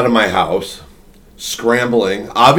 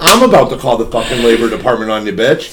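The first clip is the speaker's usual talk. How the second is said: mock angry retort; 4 dB louder than usual. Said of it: "I'm like".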